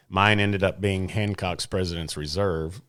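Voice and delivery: unenthused, low-key admission; disappointed. Real, not acted. Recalling his pick from the tasting, sounding mildly disappointed. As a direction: say it with a touch of letdown. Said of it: "Like you're disappointed you picked that".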